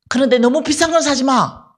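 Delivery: unvoiced confiding aside; whispered caution. Advising the disciple on the phone, whispered caution. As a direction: whisper the warning like a secret.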